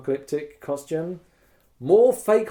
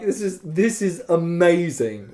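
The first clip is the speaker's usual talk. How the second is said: delighted laughing; 4 semitones higher, 4 dB louder, slower than usual. Retold or imitated. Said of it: "all of us would like".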